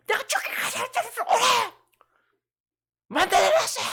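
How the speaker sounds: put-on high, loud childish yell of defiance; a child yelling at a parent that he did as he pleased; defiant child shouting. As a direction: shout it back like a rebellious kid. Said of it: "만약에 여러분 자식들이".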